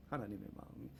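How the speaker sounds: 하나님의 마음이 repeated softly, rising on 하나님의; 하나님의 said again, hushed and lifted; soft echo. Shown as a demonstration.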